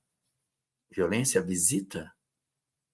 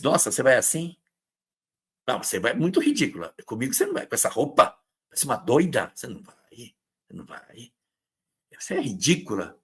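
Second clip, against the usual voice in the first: mock critic; faster than usual. Acting a critical partner.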